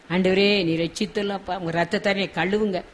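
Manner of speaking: soft, low-key begging to God; hushed plea to the Lord; pleading prayer. Shown as a demonstration. Preacher showing congregation how to beg God for cleansing, softly pleading. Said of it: "நம்ம கெஞ்சி கேட்போம்".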